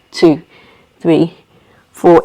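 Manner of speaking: low, evenly spaced count; exhale count. Shown as a demonstration. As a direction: drop the pitch to count the breath out.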